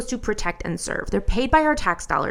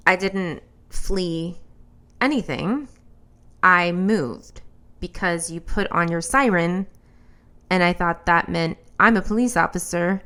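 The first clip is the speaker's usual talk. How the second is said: calm; 2 semitones lower than usual. Retold or imitated. Answering the angry officer calmly, steady and measured. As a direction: stay cool and explain evenly. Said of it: "I'm this calm when I'm saying it".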